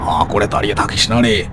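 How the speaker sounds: put-on urgent, rising command to the boy; rally the frightened boy; urgent call. Bapi urging Shantu.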